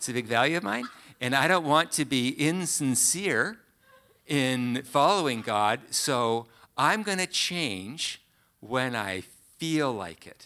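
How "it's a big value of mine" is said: voice goes up at the end on mine. Speaker mimics how such people talk, rising upspeak at the end. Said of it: "Their voice goes up at the end".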